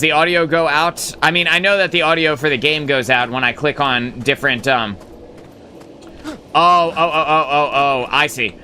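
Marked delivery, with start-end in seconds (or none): 6.3-8.5 catching on all at once; sudden realisation. Real, not acted. Sudden realisation about chat question.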